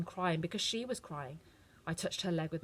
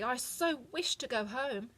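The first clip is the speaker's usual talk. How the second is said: higher, slow and longing; wistful Dorothy; 6 semitones higher, slower than usual. A narrator's reading. Dorothy tells the witch her wish, slow and wistful. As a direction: homesick little girl. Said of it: "said Dorothy".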